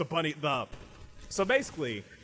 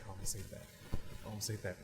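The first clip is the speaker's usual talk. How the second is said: mad at himself; 4 semitones lower, 9 dB quieter than usual. Acted. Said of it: "like, mad about himself".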